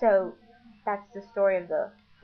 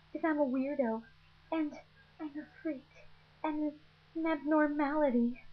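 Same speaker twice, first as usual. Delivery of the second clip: melodramatic Nessie; 6 semitones higher than usual. Retold or imitated. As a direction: wail it like a tragic misfit teen. Nessie's dramatic monologue retold.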